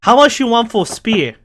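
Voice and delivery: put-on broken-English Asian granny accent; old Asian lady. Old Asian lady haggling for the spear, mock Asian accent. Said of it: "it's an old Asian lady".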